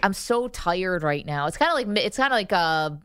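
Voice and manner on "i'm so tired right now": Buffalo accent. Shown as a demonstration. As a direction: show off the Western New York accent. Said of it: "What's a Buffalo accent?".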